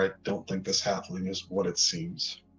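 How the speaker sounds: hushed, quiet whisper. Character walking up behind Markinor to speak to him, whispering. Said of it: "just kind of whisper".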